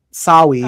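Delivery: Sawi said as sowwy, w for r; says w for r. Retold or imitated. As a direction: say Sawi with a cutesy w in place of r. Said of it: "She writes Sawi, like, S O W W Y".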